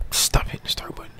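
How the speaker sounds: whispered joke aside. Real, not acted. Gamer mocking a fellow player, whispered aside. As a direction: hush it like a secret dig. Joking aside while game talks.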